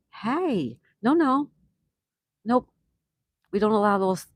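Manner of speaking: high, loud mock refusal, half joking; mock stern no. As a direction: shoot the idea down loudly in fun. Refusing a chat joke.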